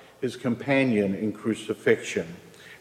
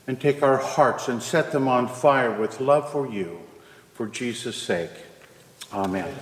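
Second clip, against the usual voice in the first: prayer. Acted. Prayer before the sermon.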